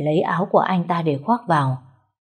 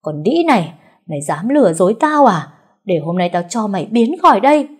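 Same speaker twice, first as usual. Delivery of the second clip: loud, raging insult; cursing; 3 semitones higher, 5 dB louder than usual. Acted. Mother-in-law cursing the bride, enraged. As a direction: spit the abuse at her. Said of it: "chửi bới".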